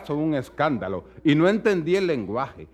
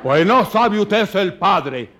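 put-on slow, louder scolding old countryman; indignant old man; 4 semitones higher, 5 dB louder, slower than usual. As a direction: drag it out, scandalized. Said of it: "old man scolding the parent". (viejo escandalizado que regaña, lento)

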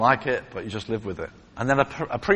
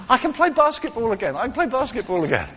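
excited shout of joy; 8 semitones higher than usual. Retold or imitated. Healed man shouting his joy.

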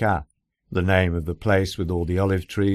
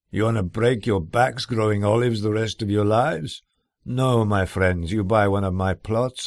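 persuasive Greek builder; 3 semitones higher than usual. Retold or imitated.

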